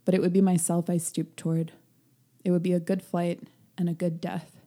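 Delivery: lightly voiced book reading; reading aloud. Reads passage aloud.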